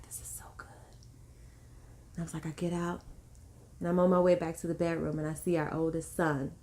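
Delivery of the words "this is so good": hushed, almost whispered to oneself; very soft murmur of retold contentment; blissful inner thought. Retelling inner thought during labor.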